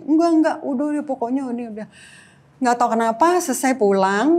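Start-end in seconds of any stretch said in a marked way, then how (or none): 0.1-1.9 higher, louder retold brush-off; insistent refusal. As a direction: cut off the pleading, quick and insistent. Retold argument, refusing the plea. (penolakan tegas yang ditirukan)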